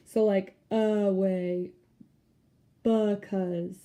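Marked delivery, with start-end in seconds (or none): 0.7-1.7 away with a light uh at the start; away, first vowel a short uh; schwa at start. Shown as a demonstration. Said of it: "makes kind of like an uh". 2.8-3.8 because said buh-cause; because, reduce the be to buh; schwa at start. Shown as a demonstration. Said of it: "makes kind of like an uh".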